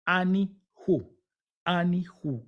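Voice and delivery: Ani-hu slowly split, "A-ni... hu"; Ani-hu pronunciation. Shown as a demonstration. Teacher showing "yo soy él" in Hebrew, Ani-hu slowly split. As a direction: leave a gap before the "hu" of Ani-hu. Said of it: "decía".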